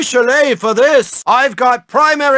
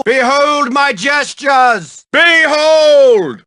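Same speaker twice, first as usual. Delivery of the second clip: grand shout; 3 semitones higher, slower than usual. Acted. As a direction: announce it theatrically. Teacher shows rude gesture.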